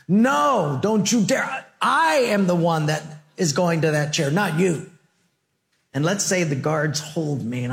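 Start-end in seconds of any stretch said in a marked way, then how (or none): 0.1-4.9 desperate protest. Pretend. Father refusing to let daughter take his place, crying out. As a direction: refuse with everything you have.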